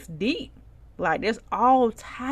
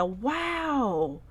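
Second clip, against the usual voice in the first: mock pity; 6 semitones higher, slower than usual. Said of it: "Or I'm just like".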